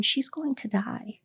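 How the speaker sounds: a slow, breathy whisper of bad news; hushed grave words. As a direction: drop to a whisper for the worst part. Doctor delivering grave news.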